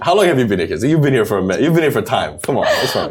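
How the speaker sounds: put-on playful Filipino accent; put-on Filipino English, teasing. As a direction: chide them in a Filipino accent. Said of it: "Yeah, Filipino".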